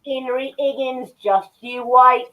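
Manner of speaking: put-on Cockney, as Eliza Doolittle; British accent on request. Shown as a demonstration. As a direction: perform a mock Cockney accent. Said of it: "do a British accent now".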